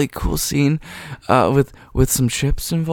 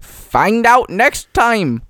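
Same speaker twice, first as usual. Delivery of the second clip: slow announcer outro; 8 semitones higher, 8 dB louder, much slower than usual. Pretend.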